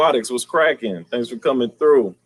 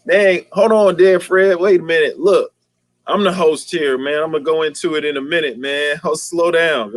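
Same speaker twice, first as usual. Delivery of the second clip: playful protest; 5 semitones higher than usual. Real, not acted. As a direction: push back at an impatient viewer. Host fends off an impatient viewer.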